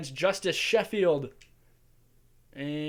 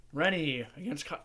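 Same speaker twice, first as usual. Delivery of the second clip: voice crack. Real, not acted. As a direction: voice cracking mid-word. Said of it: "ooh, voice crack".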